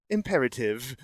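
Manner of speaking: evenly spoken machine voice; computer voice. Shown as a demonstration. Podcast host demonstrating on request, computer voice. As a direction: imitate a computer giving one word. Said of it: "My computer voice?".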